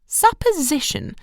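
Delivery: questioning repeat. A narrator's reading. Mother repeats word.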